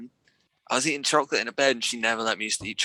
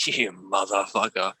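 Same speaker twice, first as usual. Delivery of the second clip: grandma scolding; 4 semitones lower, slower than usual. Retold or imitated. Granny finds chocolate stain in bed.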